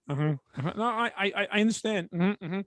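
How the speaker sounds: mild, polite nodding-along murmurs; feigned listening. Shown as a demonstration. Demonstrating to a friend how to humor someone, feigned listening. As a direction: humor them with agreeable little noises. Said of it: "better off just going like this".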